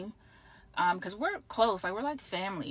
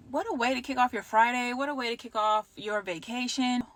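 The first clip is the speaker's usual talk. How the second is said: higher, louder, bitter exclamation; rueful sarcasm; 5 semitones higher, 4 dB louder than usual. Retold or imitated. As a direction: retell your disbelief with biting irony. Bitterly quoting own reaction to layoff.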